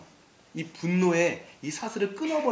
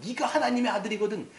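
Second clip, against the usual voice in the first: mocking taunt; 2 semitones higher, 3 dB louder than usual. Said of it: "막 이러면서 막 욕을 합니다".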